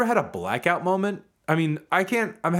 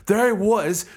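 flat, deadpan movie-star voice, slightly higher; Keanu Reeves impression; 6 semitones higher, slower than usual. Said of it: "like, Keanu Reeves".

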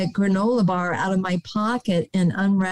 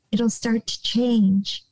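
whisper. Real, not acted. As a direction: let it fall to a gentle whisper. Soft therapeutic advice.

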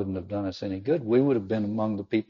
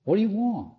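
high, loud, startling question; booming Christ; 11 semitones higher, 4 dB louder than usual. Acted. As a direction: make it catch them off guard. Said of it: "Oh my gosh".

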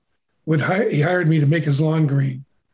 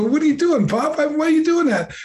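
put-on higher, upset child protest; mild mock anger at Pop; retold upset kid; 9 semitones higher than usual. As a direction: replay the hurt boy's outburst, half-mocking. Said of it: "I'm all mad".

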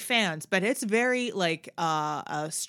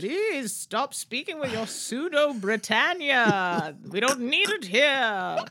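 mock stern scold; 4 semitones higher, slower than usual. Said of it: "Sam Eagle was really getting on your case".

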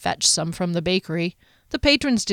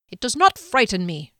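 snapped; 2 semitones higher than usual. Acted. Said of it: "Jeskellen snapped".

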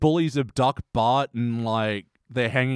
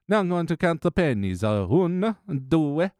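put-on old lady counting; 6 semitones higher than usual. Host imitating the old lady counting pennies. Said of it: "and it's like".

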